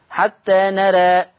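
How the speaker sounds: حتى نرى read slowly, the alif of نرى tilted toward e; slow with taqlil. Shown as a demonstration. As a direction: stop on نرى with a slight imala, nera. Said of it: "إلا حال الوقف عليها". (وقف على نرى بالتقليل)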